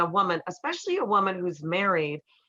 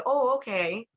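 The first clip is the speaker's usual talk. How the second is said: surprised realization; 6 semitones higher than usual. Retold or imitated. Boyfriend softening.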